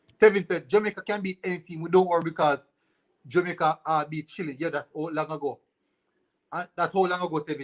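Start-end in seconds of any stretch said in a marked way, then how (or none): none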